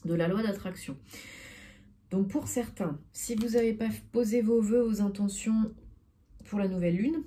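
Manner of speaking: holding breath against hiccups; talking on a held breath. Real, not acted. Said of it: "j'essaye de retenir mon souffle".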